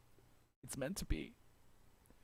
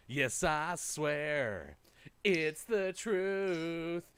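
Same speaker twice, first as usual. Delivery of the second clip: mock tearful vows; 3 semitones higher, 4 dB louder, much slower than usual.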